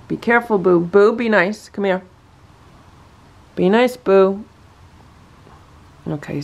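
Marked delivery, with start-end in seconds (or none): 0.1-4.4 pet talk. Real, not acted. Soothing the agitated cat.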